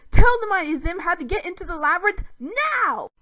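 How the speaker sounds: high, loud imperious order; commanding demand. A narrator's reading. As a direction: command like a conqueror. Zim demanding entry.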